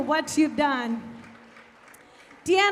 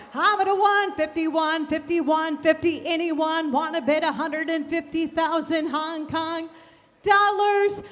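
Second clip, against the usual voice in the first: auctioneer; 2 semitones lower than usual. Real, not acted. Auctioneer chant calling bids.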